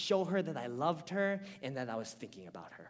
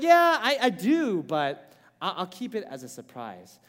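eager wife; 10 dB louder than usual. Retold or imitated. Wife's eager reply.

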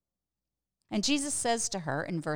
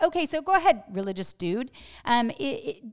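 high, loud mocking challenge; snarky woman; 6 semitones higher, 7 dB louder than usual. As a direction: needle him like a smart-aleck skeptic. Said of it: "Here she is with that snarkiness".

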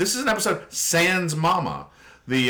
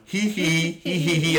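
imitated giggle; 4 semitones higher than usual. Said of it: "And they're going".

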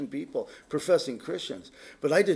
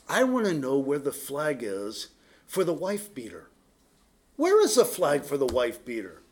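sarcastic; 2 semitones lower than usual. Retold or imitated. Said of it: "I said sarcastically on Monday night".

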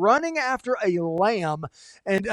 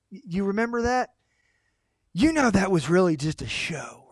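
Satan whispering; 3 dB quieter than usual. Retold or imitated. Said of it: "He whispers in our ears".

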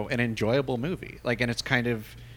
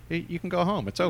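higher, bored mock dismissal; dismissive quote; 7 semitones higher, faster than usual. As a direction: shoo them out with a mock shrug. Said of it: "he comes out and he says".

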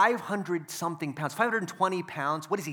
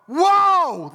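big high shout of amazement; loud astonished whoa; yelled whoa; 13 semitones higher, 12 dB louder than usual. Retold or imitated. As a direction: shout it like the match just blew your mind. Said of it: "And I yell".

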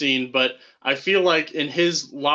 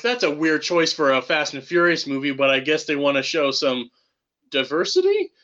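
sarcastic. Retold or imitated. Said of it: "I'm like".

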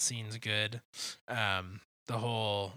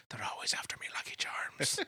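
breathy whispered leprechaun line; Lucky Charms leprechaun whisper; 2 semitones higher than usual. Retold or imitated. Friend quoting the Lucky Charms guy, whispered. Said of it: "the guy who's Patty, what's his face".

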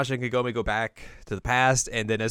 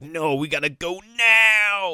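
Inuyasha urging; 9 semitones higher, 7 dB louder, slower than usual. Retold or imitated. Voicing Inuyasha urging Kagome.

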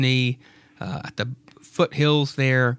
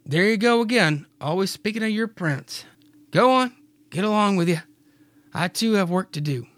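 higher, a touch of southern twang; Mary's voice; 6 semitones higher than usual. Acted. Mary teasing Clyde about his prince, southern-tinged. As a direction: shoo him off, teasing. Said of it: "Mary says".

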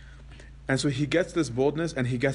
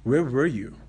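a touch louder, a blunt challenge to God; bold demand; 2 semitones higher, 4 dB louder than usual. Retold or imitated. Antony confronts God after his beating, a bold louder demand. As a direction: fire the question straight at God. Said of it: "looks at him and goes".

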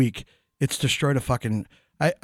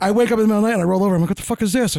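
startled retelling; 5 semitones higher, much faster than usual. Retold or imitated. Man telling friends the cat toy woke him, fast and startled. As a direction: rush it out like waking to a shock.

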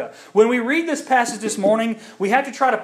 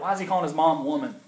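sassy reading; 3 semitones lower, 5 dB quieter, faster than usual. Retold or imitated. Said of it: "It just sounds sassy when you read it".

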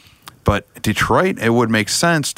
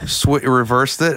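ordinary delivery

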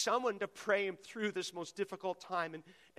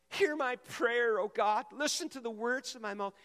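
loud cry to God; 4 semitones higher, 3 dB louder than usual. Acted. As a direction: cry out the prayer to heaven. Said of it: "psalm read twice".

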